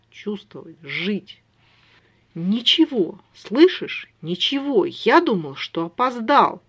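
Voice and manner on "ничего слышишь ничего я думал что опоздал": loud, each word struck out separately; Lami, frightened for his brother, hammering out each word. Acted. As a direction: drive every word home like hammer blows. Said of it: "скорее чеканил каждое слово".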